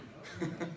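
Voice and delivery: short breathy chuckle. Real, not acted. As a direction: chuckle at your own story. Laughs after wife joke.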